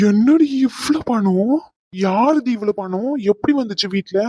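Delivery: stunned surprise. Acted. Uncle shocked at money.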